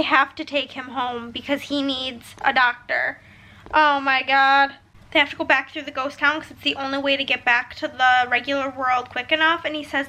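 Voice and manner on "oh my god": shocked. Real, not acted. Reaction to plot.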